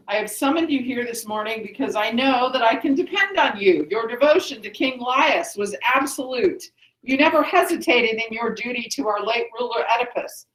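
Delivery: measured oratory, lightly formal; a touch of the proud new ruler laying down principles; lightly voiced Creon. Teacher reads Creon addressing the chorus, lightly declaimed.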